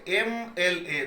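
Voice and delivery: "एम एल ए" said letter by letter, opening on a vowel; letters sounded out. Shown as a demonstration. Teacher showing students that MLA starts with a vowel, "एम एल ए" sounded out. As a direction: sound out "एम एल ए" so the first vowel is clear. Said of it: "तो बोलेंगे जैसे".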